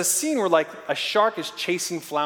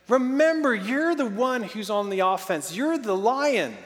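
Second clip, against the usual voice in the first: slow emphatic reminder; 4 semitones higher than usual. Retold or imitated.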